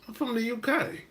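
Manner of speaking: put-on playful British accent on "I'm from the U K"; mock British accent. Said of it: "I like the accents".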